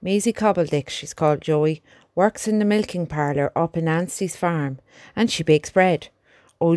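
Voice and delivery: earnest young soldier, lightly voiced; a country lad talking to his horse. Albert talks of his girl.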